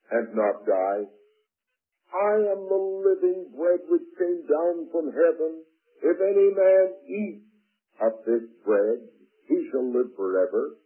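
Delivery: measured, declamatory Bible reading; scripture reading. A narrator's reading. Preacher reads Jesus' words to the congregation, declamatory. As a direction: read the verses out with solemn emphasis.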